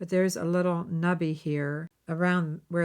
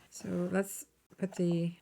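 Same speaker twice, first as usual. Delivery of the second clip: slow, unvoiced whisper while placing beads; 3 dB quieter, slower than usual. Real, not acted. To viewers while laying out beads, a slow whisper. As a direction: whisper it to yourself as you work.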